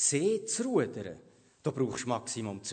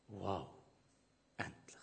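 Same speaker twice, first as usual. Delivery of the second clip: a soft, relieved sigh of a word; relieved whisper; 6 semitones lower, 13 dB quieter, slower than usual. Real, not acted. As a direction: breathe it out in a whisper. Relief after the storm.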